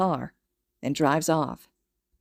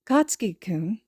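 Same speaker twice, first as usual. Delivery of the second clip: uncertain tone; 2 semitones higher than usual. Acted. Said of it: "with an uncertain tone".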